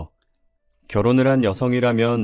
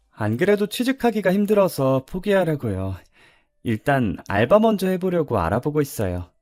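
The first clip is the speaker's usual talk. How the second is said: put-on discouraged young graduate; 5 semitones higher than usual. Discouraged graduate confides in teacher.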